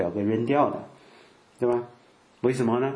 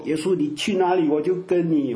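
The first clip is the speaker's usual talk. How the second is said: raised, louder pledge of devotion, tearful mock zeal; higher and louder, gushing vow to Jesus; mock fervent convert; 7 semitones higher, 3 dB louder than usual. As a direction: ham up a teary young believer's vow. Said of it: "要讲到".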